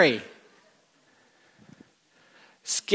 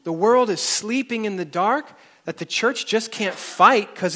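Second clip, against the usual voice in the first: reciting a singer's lyrics; 4 semitones higher than usual. Retold or imitated. Preacher reading a singer's lyrics to the congregation, impassioned and higher. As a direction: recite the song like a fiery rebuke. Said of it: "This singer is about to spank everything".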